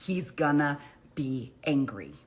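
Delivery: slow hushed whisper; whispered aside. Real, not acted. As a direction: drop to a whisper as if sharing a secret. Whispered aside about the judge.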